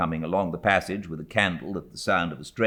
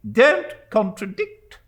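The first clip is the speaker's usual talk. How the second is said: slow, loud, higher rebuke; stern rebuke; 9 dB louder, slower than usual. A narrator's reading. Stern aunt rebuking the widow, slow stern. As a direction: shut down the objection. Miss Betsy snaps.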